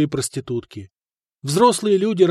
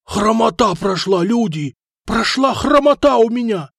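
frenzied joy; 7 semitones higher than usual. A narrator's reading. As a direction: rave about being healed. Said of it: "бесновался какой-то мужичок".

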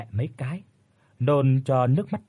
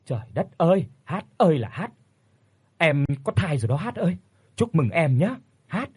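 higher, lively burst of delighted realisation; excited exclamation; 4 semitones higher than usual. Acted. Neighbour realises the young wife is pregnant, excited. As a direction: slap the thigh and cry out the good news. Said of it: "Cô vỗ đùi cái đét rồi nói".

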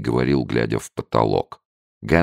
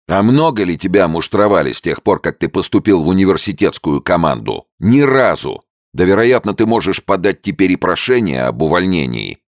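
heated mockery; 7 semitones higher, 7 dB louder than usual. A narrator's reading. Friend mocking, heated argument.

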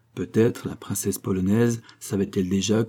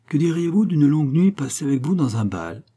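caressing tone; 6 semitones higher, 3 dB louder than usual. Acted. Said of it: "d'un ton caressant".

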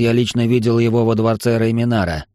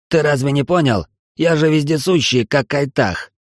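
angry reply. Acted. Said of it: "зло ответил".

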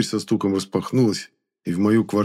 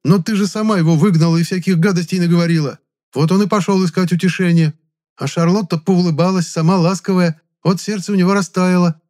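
angry scolding; 10 semitones higher, 6 dB louder than usual. A narrator's reading.

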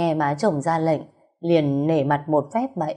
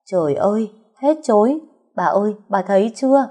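higher and louder, a nanny shrieking in triumph; shrill outcry; 4 semitones higher, 4 dB louder than usual. Acted. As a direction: cry out as if the guilt is proven. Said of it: "bà Vú đã chu chéo".

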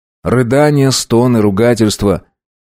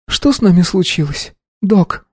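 sobbing; 10 semitones higher than usual. A narrator's reading. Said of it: "всхлипнула девушка".

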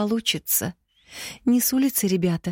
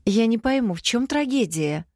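put-on indignant, higher girl's voice; mildly indignant, pitched higher; indignant daughter; 7 semitones higher than usual. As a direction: huff it out, higher. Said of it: "возмутилась дочь".

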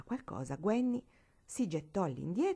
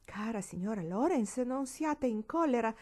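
a touch of higher, imploring plea; pleading; 5 semitones higher than usual. Acted. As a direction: gently beg her not to be angry. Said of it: "implorava Lorraine".

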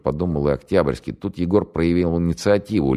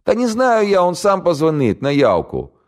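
put-on much higher, louder panicky young man; scared radio operator; 5 dB louder than usual. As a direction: blurt it out in terror. Голос радиста. (испуганный пленный радист, высоко и громко)

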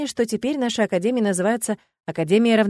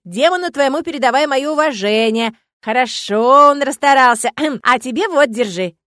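put-on louder, higher folksy old spirit; gruff-kind forest spirit; 6 semitones higher, 10 dB louder than usual. A narrator's reading. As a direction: grumble thanks like a pleased old woodsman.

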